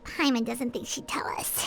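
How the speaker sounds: unvoiced whisper, doubtful; hushed aside. Paimon whispering her doubt to the Traveler. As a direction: whisper it so the Knave won't hear.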